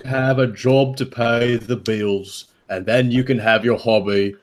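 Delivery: lightly put-on British accent as the uncle. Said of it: "if you guys do the accent".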